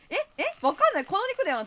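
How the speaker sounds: high, loud, laughing confusion; flustered. Real, not acted. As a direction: panic over the game. Panicked confused gameplay. (慌てて高い声で)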